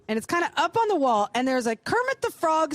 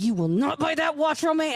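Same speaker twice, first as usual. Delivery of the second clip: stern self-warning. Retold or imitated. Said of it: "I'm being really stern with myself".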